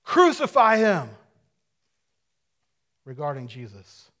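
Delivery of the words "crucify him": loud, slow crowd chant of crucify; crowd shouting. Retold or imitated. Preacher voicing the mob at Pilate's court, loud slow shouting. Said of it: "court and shouted".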